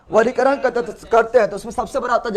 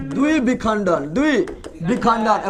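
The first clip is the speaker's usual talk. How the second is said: द्विविखंडन drawn out in separate parts; teacher slowly sounding out द्विविखंडन; slow term drill; much slower than usual. Shown as a demonstration. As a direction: dictate द्विविखंडन slowly, piece by piece. Drilling the new term for pupils.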